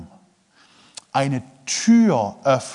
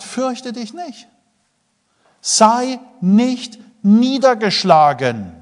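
solemn; 8 semitones higher, 4 dB louder, much slower than usual. Acted. God's command, slow.

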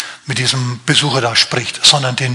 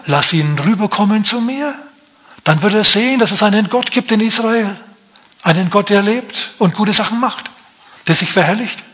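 serene prophet; 5 semitones higher than usual. Acted. Prophet voiced, confident reply.

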